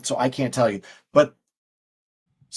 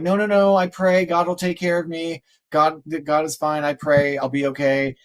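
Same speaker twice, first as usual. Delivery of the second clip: stranded believer; 3 semitones higher than usual. Retold or imitated. Stranded person refusing help.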